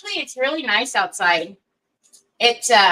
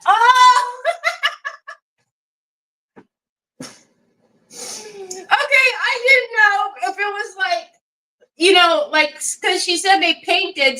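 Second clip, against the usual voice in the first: laughing; 9 semitones higher, slower than usual. Real, not acted. Laughing at mom spanking staff.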